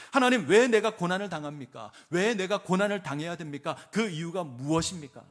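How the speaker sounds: loud, anguished demand, hitting each 왜 hard; crying out to God. Acted. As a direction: shout the why at heaven in protest. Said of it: "따지고 소리치고 탄식합니다".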